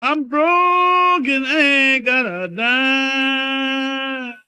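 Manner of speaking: ordinary talk, nothing marked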